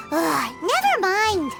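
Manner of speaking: slow, sighing give-up; exasperated. Acted. Companion abandons explaining about the Archon, exasperated. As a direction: drop the subject with an exasperated groan.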